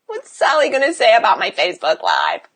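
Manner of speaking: mock fretting that slides down in pitch; whiny imitation of a worrier. Coach mimicking client afraid of being judged online, mock fretting. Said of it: "worried about Sally".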